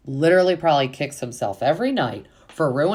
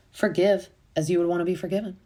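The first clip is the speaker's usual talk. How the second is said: higher, quick recited saying; lightly put-on higher voice; mimicked preachy quote; 5 semitones higher, faster than usual. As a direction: imitate someone reciting a motto, pitched up. Mimicking Taylor's quote in a retelling.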